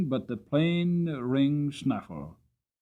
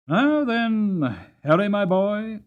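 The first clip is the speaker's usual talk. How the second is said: a father's hearty call, higher and louder; calling out to his son; 8 semitones higher, 5 dB louder, slower than usual. Acted. Father greets his son at the door, hearty call. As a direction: call the boy over cheerfully.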